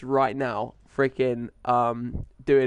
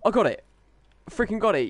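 high, rising disbelief; excited surprise; 8 semitones higher, faster than usual. Real, not acted. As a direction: squeal with delight at the hit. Surprise grenade success.

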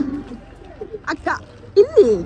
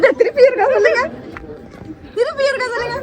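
high-pitched, laughing through the words; real laughing; 6 semitones higher, 5 dB quieter than usual. Real, not acted. Host asking brother to repeat his answer, laughing.

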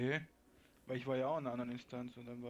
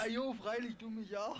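woman voice; 9 semitones higher, 5 dB louder than usual. Pretend. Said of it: "Ich meinte".

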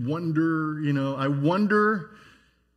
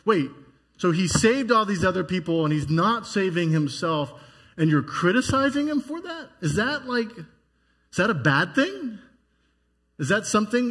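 rising, puzzled questions; incredulous bystander; 3 semitones higher than usual. Retold or imitated. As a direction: ask it as if you can't believe the taunt. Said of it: "if you hear someone saying".

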